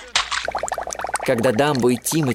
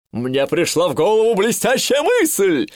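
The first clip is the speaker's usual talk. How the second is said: thrilled outburst, a touch higher; excited exclaim; 7 semitones higher than usual. A narrator's reading. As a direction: burst out with a bright idea. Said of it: "— закричал он". (восторженный возглас)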